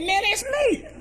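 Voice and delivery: high laughing "Man, it's me"; blurting it out through a high laugh. Retold or imitated. Caller learns it's her grandson, he answers laughing.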